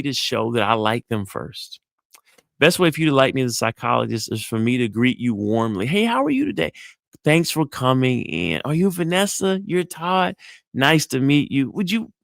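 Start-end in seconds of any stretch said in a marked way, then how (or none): 5.9-12.1 soft smile greeting. Shown as a demonstration. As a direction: warmly greet a new client, smiling. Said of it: "That is a soft smile".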